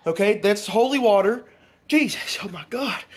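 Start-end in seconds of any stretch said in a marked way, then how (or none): 1.9-3.0 amazed exclamation. Real, not acted. Amazed at the dog.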